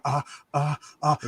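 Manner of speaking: halting string of uhs; stalled, awkward filler noises; mock rambling hesitation. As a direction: imitate being stuck for words on camera. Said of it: "six minutes of me rambling, going".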